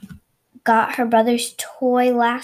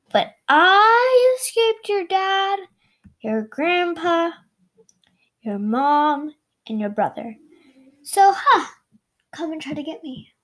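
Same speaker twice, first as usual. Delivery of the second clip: taunting turkey; 5 semitones higher than usual. Acted. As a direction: tease her like a smug bird.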